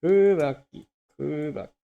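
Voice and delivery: high loud dramatic call; dramatic reading. Pretend. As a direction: belt it out like an anime line. Playful dramatic Japanese reading.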